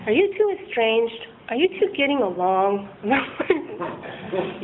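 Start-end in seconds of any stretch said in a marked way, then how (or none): 0.0-2.9 slowed-down counsellor tone; therapist voice. Retold or imitated. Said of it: "He starts to sound like a therapist".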